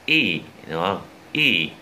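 Y as a sustained, tense "ee"; long i. Shown as a demonstration. Teacher recalls the long vowel before the short one, long i on Y. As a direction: hold Y long with lips spread. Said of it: "Y là chữ y dài".

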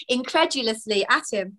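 incredulously spelt out carefully; careful retry. Real, not acted. Reader retrying the word she stumbled on. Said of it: "I can't say it now".

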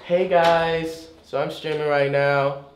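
soft put-on girl voice; lightly voiced young woman. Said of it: "I switched my voice to a girl voice".

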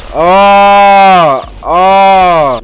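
loud, high alarmed cries; shocked at getting shot; real startled yelp. Real, not acted. Reacts to enemy fire.

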